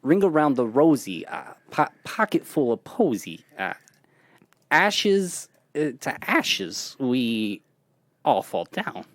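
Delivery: lightly voiced Walken, halting pauses between phrases; Christopher Walken impression. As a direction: break the rhyme into odd Walken beats. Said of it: "So that's Christopher Walken".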